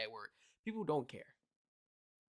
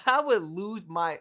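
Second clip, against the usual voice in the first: raised, slow mock outrage; acted losing it; 4 semitones higher, 6 dB louder, slower than usual. Imagining the reaction to an insulting question, loud and losing it. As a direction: drag it out loudly, as if losing it. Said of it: "I'm getting loud and I'm being obnoxious".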